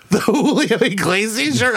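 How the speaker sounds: high, slow question broken by laughter; laughing disbelief. Retold or imitated. Student to vice principal about missing shirt, laughing disbelief. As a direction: crack up halfway through asking. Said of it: "I just started laughing".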